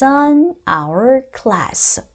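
"on our class" very slow, "our" beginning on "ah"; "our" with no H after a drawn-out "on"; silent-H linking. Shown as a demonstration. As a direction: stretch "on our class" for learners to copy. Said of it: "H가 소리가 안 나요".

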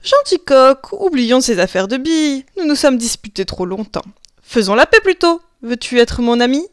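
a sly fox putting on a honeyed voice; lightly voiced cunning fox, mock sweet; sweetened fox voice. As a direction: coax the rooster like a false friend. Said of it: "le renard adoucit sa voix".

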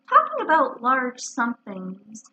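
dreamy, unhurried musing; lightly wistful, drawn-out words. Acted. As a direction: drift slowly into a pleasant thought. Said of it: "he went on dreamily".

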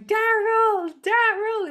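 put-on French accent. Laurent calling after Daryl on the beach, a high French-accented cry. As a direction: imitate a French boy calling out. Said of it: "in that gorgeous accent".

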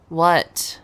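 loud, sharp startled "What?". Real, not acted. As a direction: jump at the sudden sound. Reacting to listener's sudden pout.

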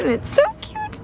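excited squeal. Real, not acted. Gushing over new side table.

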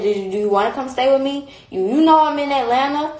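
replaying her own earnest plea; retold invitation. Retelling her offer to friend.

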